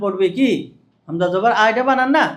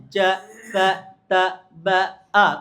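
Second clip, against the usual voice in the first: short, brisk letter sounds; quick recitation; 2 semitones lower, much slower than usual. Shown as a demonstration. Teacher shows trainees how pupils should drill letters, quickly. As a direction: rattle off each syllable without dragging it. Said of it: "তাড়াতাড়ি".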